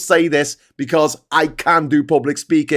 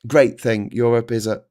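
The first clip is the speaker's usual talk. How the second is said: halting speaker; 4 semitones lower than usual. Retold or imitated. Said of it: "and they'll say".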